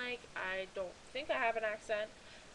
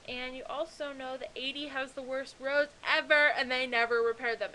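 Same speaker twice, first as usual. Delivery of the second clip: ranting; 2 semitones higher, 6 dB louder than usual. Real, not acted. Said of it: "So that's my mini rant".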